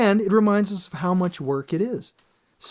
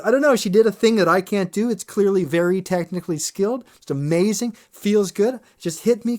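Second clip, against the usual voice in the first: awed audience member; 4 semitones higher than usual. Retold or imitated. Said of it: "she goes".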